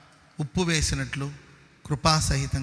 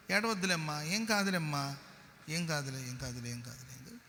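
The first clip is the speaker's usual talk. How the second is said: soothing someone who keeps crying, fading softer; mock consoling; 3 dB quieter than usual. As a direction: hush a weeping woman, quieter and quieter till it's a murmur. (ఏడుస్తున్న స్త్రీని ఓదార్చుతూ, మెల్లగా తగ్గుతూ)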